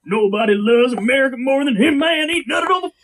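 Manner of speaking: high, worked-up patriot fan voice; mock idiot supporter. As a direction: gush over your idol, mockingly. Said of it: "idiots like this be".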